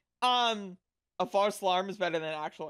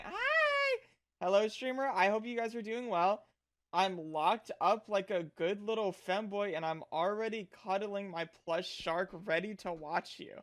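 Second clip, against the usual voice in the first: cute anime streamer; 3 dB quieter than usual. Retold or imitated. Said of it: "Are you a real person?".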